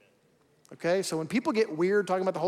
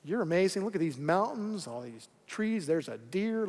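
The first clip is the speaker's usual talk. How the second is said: gaze at the mountains in quiet awe; awed and soft; 6 dB quieter than usual. Retold or imitated. Preacher voicing a calm rafter, soft and awed.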